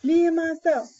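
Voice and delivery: high, proud roared boast; chest-out lion roar. A narrator's reading. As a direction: roar it out like a proud king of beasts. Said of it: "he's roaring proud".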